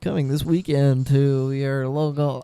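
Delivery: slow fifties radio announcer. Pretend. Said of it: "nineteen fifties radio announcer".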